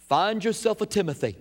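lightly done southern Billy Graham drawl on "Find yourself a Timothy"; a modest hint of a southern preacher's drawl; Billy Graham impression. Preacher imitating Billy Graham's crusade line, mild southern drawl. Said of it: "in a southern drawl".

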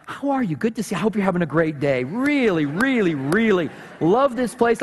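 lightly hammed-up sweet greeting; mock-friendly, eager to please; exaggerated niceness. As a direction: gush politely to win someone over. Overly nice act for the server.

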